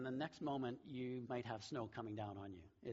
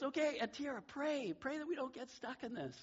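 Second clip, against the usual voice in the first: high, louder acted plea; retold urgency, pitched way up; urgent pleading; 11 semitones higher, 3 dB louder than usual. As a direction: imitate an alarmed mother urging her child. Mother retold urging prayer in storm.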